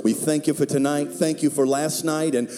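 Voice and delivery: rising fervent prayer, building up. Acted. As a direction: pray aloud for the whole church. Opening prayer over music.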